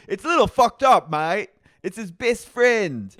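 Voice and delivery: loud, high exclamation; mock indignant protest. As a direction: protest loudly, drawing out the end. Acting Brock's protest to the table.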